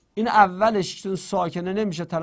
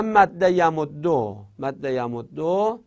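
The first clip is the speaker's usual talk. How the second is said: slow dictation; much slower than usual. Shown as a demonstration. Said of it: "مثلاً".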